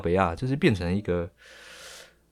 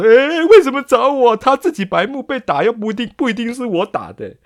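high, loud whiny brat protesting; bratty kid; 10 semitones higher, 6 dB louder than usual. Retold or imitated. Brat whining back at the teacher, high and loud. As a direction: whine like a caught punk kid. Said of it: "然后那个屁孩就说".

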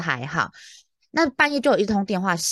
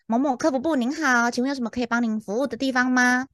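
higher, polite phone-agent voice; professional customer service; 4 semitones higher than usual. Retold or imitated. Agent greeting a silent caller again, professional phone voice. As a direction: repeat the scripted greeting professionally. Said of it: "然后我又讲了一次".

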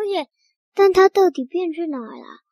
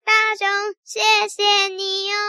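calling thanks; 4 semitones higher than usual. Acted. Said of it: "他拿起帽子往里面看".

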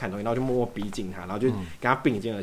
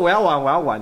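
put-on louder, childlike eager begging; hammed-up eager "let me play"; eager pleading; 5 semitones higher, 10 dB louder than usual. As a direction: beg to play like a kid. Eager to win the shirt.

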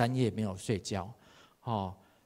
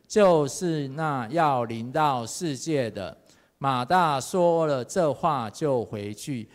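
group scripture reading; slower than usual. Shown as a demonstration. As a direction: lead the congregation slowly through the verse. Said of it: "来念一遍啊！". (放慢速度带领会众齐声朗读)

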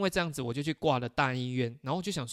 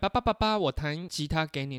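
eager little son; 2 semitones higher than usual. Retold or imitated. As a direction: imitate a son proudly showing off his guitar. Son eagerly calls his dad.

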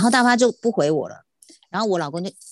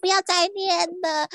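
exasperated inner plea; 11 semitones higher, slower than usual. Retold or imitated. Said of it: "我心想说".

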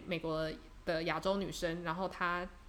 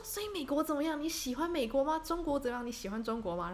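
a higher, eager burst of questions; imitating the thrilled hotel porter; excited questioning; 7 semitones higher than usual. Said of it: "整个就兴奋起来". (模仿兴奋的服务员，语调偏高地连连发问)

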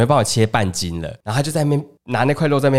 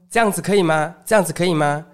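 lightly voiced auntie checking; 5 semitones higher than usual. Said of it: "然后就说".

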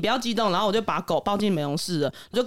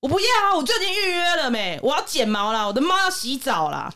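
shrill insistence; 5 semitones higher than usual. Retold or imitated. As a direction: play the cat owner digging her heels in, pitched way up. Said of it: "好高亢哦".

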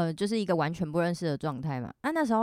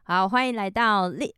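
trying not to laugh; 5 dB louder than usual. Real, not acted. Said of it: "我有在憋笑，你不要自己笑场啊".

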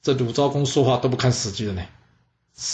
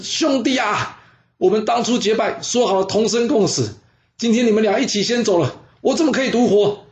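悲愤大喊；高声调的悲壮呼喊；对着死去的结拜兄弟喊出誓言；古冶子对死去的兄弟高声悲喊，决意同死; 8 semitones higher than usual. Acted. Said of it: "他大喊了一声".

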